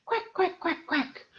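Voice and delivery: soft duck quacks; nursery duck noises; playful quacking duck sounds. Shown as a demonstration. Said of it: "go quack".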